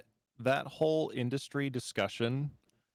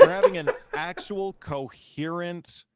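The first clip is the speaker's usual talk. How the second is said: excited; 5 semitones higher, 9 dB louder than usual. Real, not acted. Excited amazed outburst, loud.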